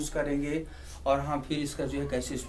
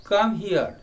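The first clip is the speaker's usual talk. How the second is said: clear example call; 2 semitones higher, 5 dB louder than usual. Shown as a demonstration. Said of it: "if you want to say that come here".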